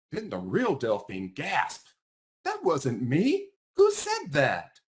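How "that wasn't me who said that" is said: slow, high and startled; shocked. Acted. Delphine startled by the fake voice, slow and high. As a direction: ask it gasping and alarmed, pitched up.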